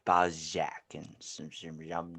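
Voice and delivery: put-on low, mumbled drunken slur; half-hearted Johnny Depp, trailing into a mumble; slurred drunk pirate. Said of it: "that's like a drunk. I don't, can't do it".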